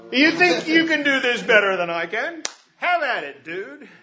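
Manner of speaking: a light touch of teasing sarcasm; mock sarcastic angel. Angel teasing Gideon, mild mock sarcasm. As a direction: toss the challenge back, half-joking. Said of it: "That's really what he's saying".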